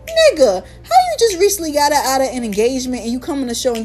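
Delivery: a half-laughing, incredulous call-out; disbelieving outburst. Retold or imitated. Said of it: "I'm like".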